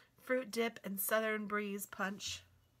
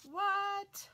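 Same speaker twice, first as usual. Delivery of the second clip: sudden high squeak of disbelief; surprised; 12 semitones higher, 4 dB louder than usual. Real, not acted. Reading a cookbook to viewers, a high astonished squeak. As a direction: shoot way up in pitch, amazed. Reacting to potatoes in donuts.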